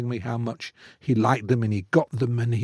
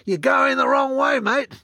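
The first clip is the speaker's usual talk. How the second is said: high, far-carrying Aussie call; calling out across the sea; 13 semitones higher than usual. Retold or imitated. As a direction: hail a passing ship, teasing. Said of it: "they called out".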